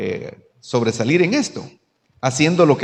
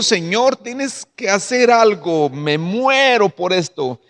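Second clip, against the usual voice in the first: retold tearful plea; 4 semitones higher than usual. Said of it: "me fui al altar a llorar y le digo".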